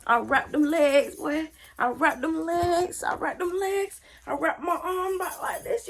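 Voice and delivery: high-pitched, drawn-out fight recap; excited boasting. Retold or imitated. Showing how she pinned him on the bed, excited. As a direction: relive the hold, stretching the words up high.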